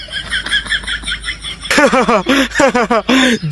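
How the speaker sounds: staged laugh of revenge; gloating laugh. Acted. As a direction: laugh at their misfortune. Gloating after making bullies bald. (মজা নেওয়ার হাসি)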